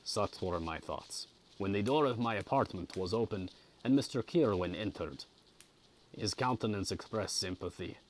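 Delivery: measured audiobook reading; story narration. A narrator's reading. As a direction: read a classic novel aloud with care. Reads the novel aloud.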